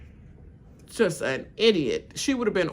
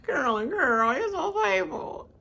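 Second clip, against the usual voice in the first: high, giggling repeat; laughing; 9 semitones higher than usual. Real, not acted. Host repeating the joke, laughing. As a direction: crack up on it.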